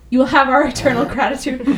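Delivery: breathless, running short on air; out of breath. Real, not acted. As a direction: squeeze the words out between breaths. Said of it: "So I'm, like, weirdly out of breath".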